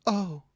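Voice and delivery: imitated feeble, high-pitched "oh"; tiny helpless yelp, mimicked; weakest little "oh". Imitating a linebacker whose ankles get broken, weak little "oh". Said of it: "gives this weakest little".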